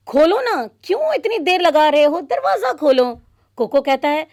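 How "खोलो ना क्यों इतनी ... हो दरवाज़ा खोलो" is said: put-on impatient girl.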